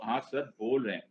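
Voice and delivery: muted mock student response; students' reply. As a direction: answer back quietly as a dutiful pupil. Voices the students' weary reply.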